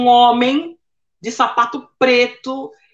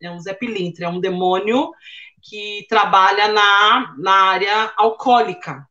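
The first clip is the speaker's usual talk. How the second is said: grave father; 6 semitones lower than usual. Retold or imitated. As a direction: pronounce it gravely, like a verdict. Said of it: "o pai falou".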